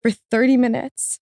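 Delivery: high, tearful catch in the voice; really getting emotional. Real, not acted. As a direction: voice rising, choked up with real emotion.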